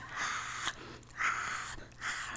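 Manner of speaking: breathy imitation of screaming; whispered mock scream. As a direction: scream in a whisper, three short bursts. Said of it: "she started screaming".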